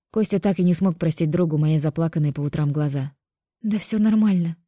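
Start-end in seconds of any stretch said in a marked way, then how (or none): 3.6-4.6 forced casual. A narrator's reading. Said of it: "Максимально естественно улыбнулась я".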